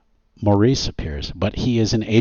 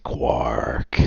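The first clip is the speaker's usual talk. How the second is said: whisper; 8 semitones lower than usual. Acted. A title card names the hero.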